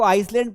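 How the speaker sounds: "आइसलैंड" with the s wrongly sounded; common mispronunciation. Shown as a demonstration. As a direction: quote the mistaken reading "आइसलैंड". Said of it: "सबसे ज्यादा बच्चे इसी में गलती करते हैं". ("आइसलैंड" में स बोलकर ग़लत उच्चारण)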